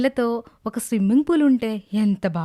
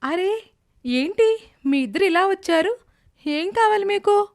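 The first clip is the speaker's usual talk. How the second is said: haughty rich woman; 8 semitones higher than usual. Acted. Rich arrogant woman confronts visitors.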